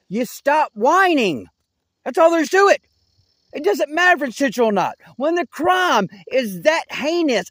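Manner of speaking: scolding them hard, no mercy; angry rant. Real, not acted. Ranting at the guilty listeners, furious and loud.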